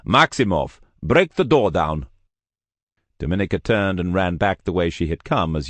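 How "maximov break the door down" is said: louder, clipped order to the giant; firm command. Acted. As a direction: command it, no doubt. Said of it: "new strategies instantly clicking into place".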